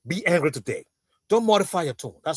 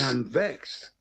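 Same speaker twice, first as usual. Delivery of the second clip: lower, softer mocking repeat; mocking echo; 10 semitones lower, 9 dB quieter, slower than usual. Host echoing the caller's complaint back, mocking. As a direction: parrot his words back with a tease.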